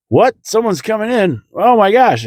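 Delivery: high-pitched, hammed-up excitement; mock astonishment. Small-town ER doctors hearing of an arrival, mock astonished.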